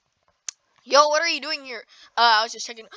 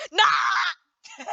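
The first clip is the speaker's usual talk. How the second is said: outburst; 6 semitones higher than usual. Pretend. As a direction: holler it in mock alarm. Mock outcry at the button.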